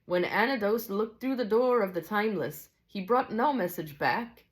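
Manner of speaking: storybook Scotsman, lilting and measured; Scottish teacher. Acted. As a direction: teach solemn mysteries in a Scottish character voice.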